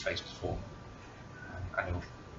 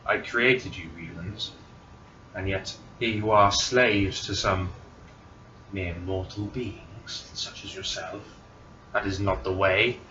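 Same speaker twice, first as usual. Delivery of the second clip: evil queen; 5 dB louder, slower than usual. Acted. GM voices divine being.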